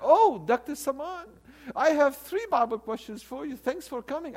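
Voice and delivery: high, excited imitation of a bank lady; delighted greeting. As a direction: greet a favourite customer with mock delight.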